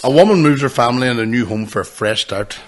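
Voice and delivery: lightly put-on radio announcer read; a hint of a radio presenter. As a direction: read out the film blurb like a radio host. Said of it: "That's my radio voice".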